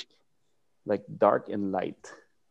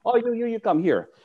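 retold summons; 10 semitones higher than usual. Teacher summons the biggest guy.

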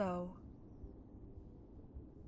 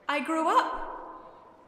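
put-on high, slow girl's voice; forsaken girl; 5 semitones higher, much slower than usual. A narrator's reading. Lost girl answering the old man, high voice. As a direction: answer as a girl, drawn out and higher.

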